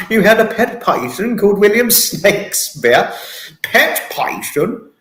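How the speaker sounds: high, loud words breaking into real laughter; helpless laughter. Real, not acted. Listener cracking up at a pet python's pun name, laughing. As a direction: laugh hard through the words, stretching them out. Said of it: "time to stop with excess laughter".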